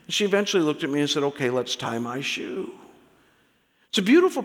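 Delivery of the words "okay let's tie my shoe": softer, settled little voice; calmed-down child. Retold or imitated. Daughter looks up at dad after her tantrum, calm and quiet. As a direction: give in quietly once the tears have dried. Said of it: "She started to breathe normally again".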